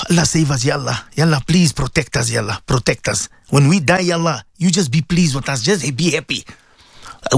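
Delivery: earnest supplication to Allah; pleading prayer. Acted.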